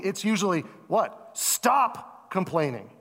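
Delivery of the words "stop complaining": parent's rebuke. Retold or imitated. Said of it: "that's what a parent has to say".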